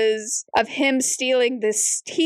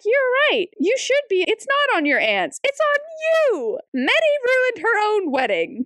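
mock outraged agreement; 11 semitones higher than usual. Reader telling friend about Meddy's wedding, mock outraged. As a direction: pile on the blame, voice shooting up. Narrator voicing her own outraged reaction.

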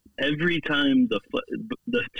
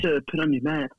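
mock British accent; 4 semitones higher than usual. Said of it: "British accent".

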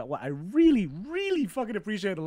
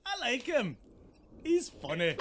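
put-on Scottish accent; 4 semitones higher, 4 dB quieter than usual. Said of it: "Icarus has been watching Billy Connolly videos".

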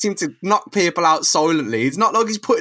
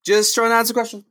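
high-voiced Spider-Man; 7 semitones higher than usual. Spider-Man voiced as swinging to punch.

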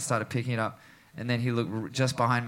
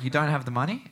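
retold disbelief; faster than usual. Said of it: "And the mood shifts".

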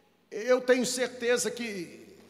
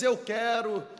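voicing Jesus healing; 3 semitones higher than usual. Preacher voices Jesus speaking to lepers and the sick, fervently building. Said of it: "como eu pudesse ouvi-lo dizendo pra nós".

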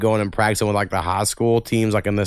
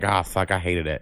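pained groan; 6 semitones lower, 5 dB quieter than usual. Retold or imitated. Remembering painful shin splints.

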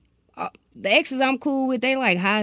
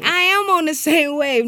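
emphatic insistence; 6 semitones higher, 5 dB louder than usual. Real, not acted. Emphatic reassurance to partner.

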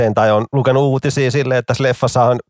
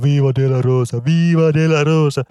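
higher, drawn-out mock yell from the crowd; mock heckler shout; 5 semitones higher than usual. Heckler in the audience yelling requests at Tommi, mild mock shout. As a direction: ham up a fan calling out a song title. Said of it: "joku siellä yleisöstä huutaa".

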